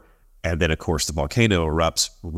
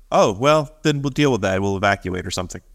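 mock nonchalant. Icelanders waving off a huge eruption, mock nonchalant. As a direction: shrug off the danger lightly. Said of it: "this is how nonchalant they were".

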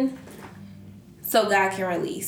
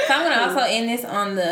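laughing through the words; faster than usual. Real, not acted. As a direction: still giggling while talking. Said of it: "My stomach hurt".

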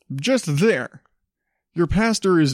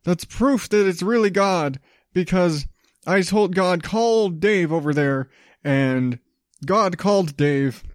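mock pastor voice; 3 semitones higher than usual. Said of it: "He said".

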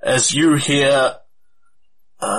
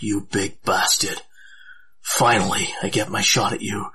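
softer, slightly lower, under the breath; quiet muttering; 4 semitones lower, 5 dB quieter than usual. Acted. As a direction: mutter it low to yourself. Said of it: "mutters very quietly to himself".

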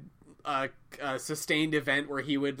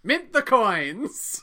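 higher, louder, slow decree; loud command; 7 semitones higher, 5 dB louder, much slower than usual. Pretend. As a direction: proclaim it slowly like an emperor. Mock imperial command.

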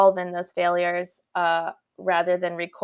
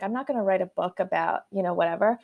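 dejected; 4 dB quieter than usual. Retold or imitated. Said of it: "I was very dejected".

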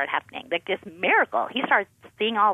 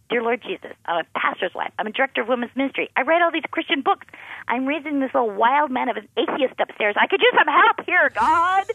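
desperate prayer; 7 semitones higher than usual. Retold or imitated.

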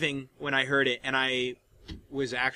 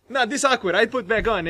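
put-on higher-pitched comic Russian accent; imitated Russian accent; 6 semitones higher than usual. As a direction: back out sheepishly in a mock Russian accent. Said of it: "he's in character the whole time".

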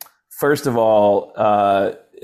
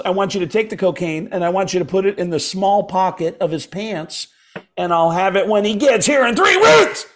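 Sam Kinison; 7 semitones higher than usual. Retold or imitated. Prank caller gives the star absurd cocaine instructions, high voice. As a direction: lay out the scheme then explode. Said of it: "that impression is so good".

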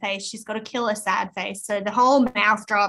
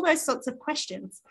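whisper; 3 semitones higher, 3 dB quieter than usual. Real, not acted. Trailing off.

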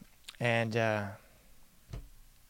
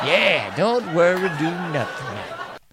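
slow mock slogan; 4 semitones higher, slower than usual. Slow mocking repeat.

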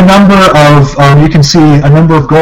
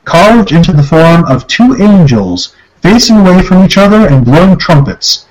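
story narration. Acted. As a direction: read the description like a narrator. Reads the room description.

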